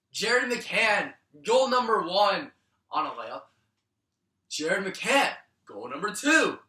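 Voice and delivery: pumped announcing each goal; excited announcer. Real, not acted. Announcing the goals.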